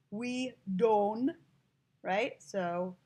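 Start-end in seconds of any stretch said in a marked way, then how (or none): 0.1-1.3 "We don't" said as "we don", no final T; dropped T. Shown as a demonstration. Teacher showing students the dialect, "don't" without its T. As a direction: leave the T off "don't". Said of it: "apostrophe T on it".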